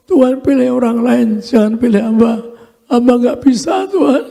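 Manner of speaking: mildly tearful begging, pitch rising at the end; a touch of crying on the last word; retold tearful plea. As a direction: re-enact a pleading prayer, near tears. Re-enacts begging God to choose another.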